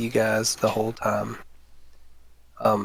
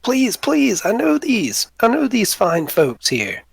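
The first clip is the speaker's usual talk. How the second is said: high, pleading goblin voice; 10 semitones higher, slower than usual. Acted. Boblin pleads for his friends, high and pleading. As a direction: beg them, pitched way up. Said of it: "He's like".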